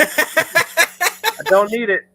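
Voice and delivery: high, slow, stretched-out refusal; drawn-out dismissive. Acted. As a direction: draw out each word, waving it away. Dismissing Mardi Gras, drawn out.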